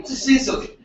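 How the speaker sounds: laughing. Real, not acted. Laughing while praising Sicily.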